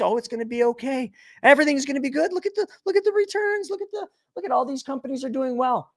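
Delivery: high, fast, gushing mock optimism; naive investor. Mocking investors who think the market keeps rising, high and giddy. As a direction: parody the gullible crowd. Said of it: "And everybody thinks".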